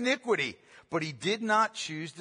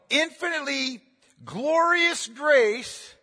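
drawn-out exaltation; 6 semitones higher, slower than usual. Real, not acted. The preacher exalts God's grace to the congregation, slow and high. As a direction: stretch out each word of glorious grace, up high.

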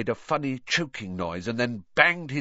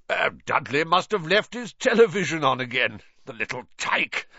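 put-on blustery uncle voice, pitched up; Uncle Vernon, jovial calling; 6 semitones higher, 3 dB louder than usual. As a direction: call out indulgently as a hearty uncle.

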